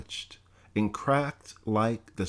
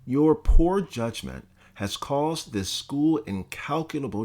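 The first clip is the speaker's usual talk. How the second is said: lightly voiced stern president, scolding; a hint of a contemptuous scolding principal; stern college president. Bledsoe berating the student, mildly stern scolding.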